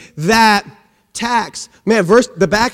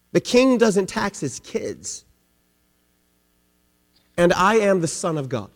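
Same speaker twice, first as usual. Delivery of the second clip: hushed, low and soft; dropped, solemn voice as Jesus; quiet revelation; 6 semitones lower, 8 dB quieter than usual. Acted. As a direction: let it sink in softly. Jesus quietly reveals who he is.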